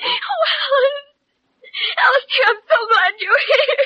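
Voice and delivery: upset, tearful, rushed. Pretend. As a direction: near sobs, playing the grieving wife. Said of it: "Did I sound convincing?".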